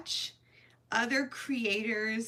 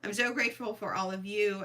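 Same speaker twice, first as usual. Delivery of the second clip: normal talking voice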